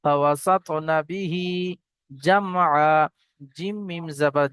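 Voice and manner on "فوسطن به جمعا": Quran recitation. Shown as a demonstration. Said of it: "teacher recites the verse".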